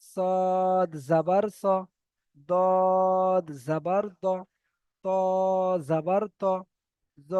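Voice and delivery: slow qaida chant, each letter name held long on a level pitch; measured spelling-out, letter after letter, with pauses; stretched-letter recitation drill. Shown as a demonstration. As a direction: sustain the letter name, then a short final syllable. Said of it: "তিন আলিফ টানটা হবে".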